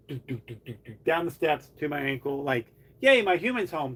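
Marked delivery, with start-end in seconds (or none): 3.0-4.0 higher, louder happy cat voice; lightly voiced happy pet; voicing the cat. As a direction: play the excited cat greeting. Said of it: "type reaction".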